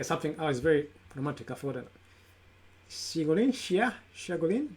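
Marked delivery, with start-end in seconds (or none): 2.9-4.7 Shiagulin asked higher, rising; tentative questions at each try; unsure name tries. Shown as a demonstration. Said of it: "Is that correct?".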